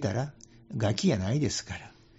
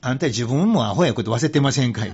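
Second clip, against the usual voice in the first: louder, laughing as he chides; teasing scold through a chuckle; laughing rebuke; 5 dB louder than usual. Retold or imitated. Monk retelling how he teased a smug listener: laughing rebuke. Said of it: "それでその人に".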